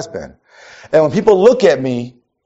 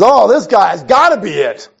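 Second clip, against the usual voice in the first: voicing Samuel; 4 semitones higher than usual. Voicing Samuel in Bible story.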